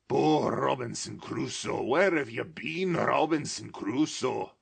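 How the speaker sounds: put-on childlike excitement; excited. A narrator's reading. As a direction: mimic the parrot's call with delight. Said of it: "excited face".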